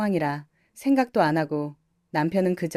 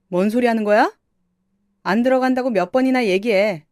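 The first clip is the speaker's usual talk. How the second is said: louder, fed-up refusal; annoyed brother; 3 semitones higher, 6 dB louder than usual. Acted. Younger brother refusing the academy job, louder and fed up. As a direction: snap back, fed up.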